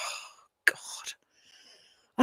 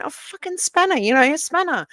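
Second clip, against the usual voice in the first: exasperated; 10 semitones higher, 4 dB louder than usual. Retold or imitated. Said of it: "I'm going".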